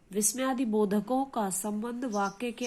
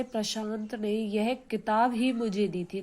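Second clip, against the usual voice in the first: किताब ही carries the weight of the line; stress on KITAB HI. Shown as a demonstration. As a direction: hit किताब ही, keep the rest level. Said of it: "बल किस पर दिया गया?". (किताब ही पर ज़ोर देकर)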